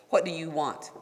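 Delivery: abrupt, impatient question; curt demand. Retold or imitated. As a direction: mimic the official's dismissive tone. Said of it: "this is just his tone".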